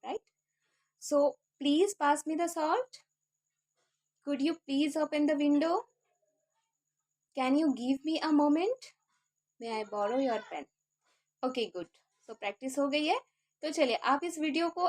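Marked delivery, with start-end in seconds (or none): 1.6-10.7 slow drill of all requests; slow recap. Shown as a demonstration. Teacher running the full drill slowly with viewers. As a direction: read them out slowly one by one. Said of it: "इसलिए मैं धीरे-धीरे बोल रही हूँ".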